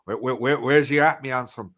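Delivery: lighter second take of the Cornish greeting; easy West Country lilt, tossed off; Cornish accent. Retold or imitated. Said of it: "people saying that".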